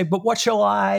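high, stretched cry that breaks off; excited outburst cut short; blurted start. Retold or imitated. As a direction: blurt it high and leave it hanging. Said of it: "He starts to say".

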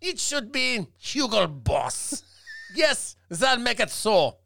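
mock German, slow and drawn out; hammy fake German voice; fake German accent. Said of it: "That's not real German".

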